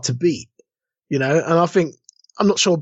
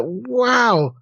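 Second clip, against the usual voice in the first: a mock amazed wow, higher; impressed wow; 5 semitones higher than usual. Reader amazed by twist.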